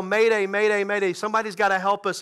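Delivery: mild mock yell for help, quickening at the end; retold distress yell. Two stranded passengers yelling into the radio, half-voiced urgent yell. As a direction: imitate an urgent radio call without full volume. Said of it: "they begin to yell".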